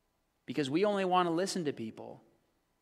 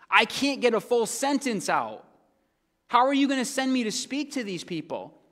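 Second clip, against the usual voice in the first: higher-pitched pleading objection; exasperated protest; 6 semitones higher than usual. Acted. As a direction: protest as if the task is impossible. Acting Moses protesting to God.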